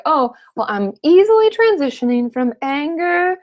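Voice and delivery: high, slowed mock-naive voice. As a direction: parody a too-neat idea of grief. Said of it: "And no, that's bullshit".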